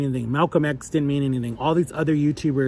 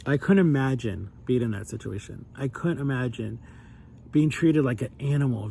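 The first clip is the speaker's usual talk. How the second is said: holding back tears; 3 semitones lower, 4 dB quieter than usual. Real, not acted. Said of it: "I'm gonna get emotional".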